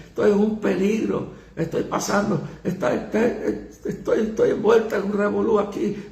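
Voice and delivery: put-on panicked girl crying out for her father; imitating frightened daughter. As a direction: mimic a terrified daughter begging her papi for help. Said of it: "oigo una voz de una joven".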